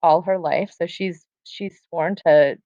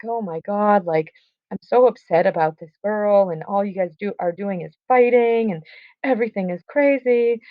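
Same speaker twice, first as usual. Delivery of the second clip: mock upset ranting; 3 semitones higher than usual. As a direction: lightly imitate someone ranting in distress. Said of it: "he's going on and on".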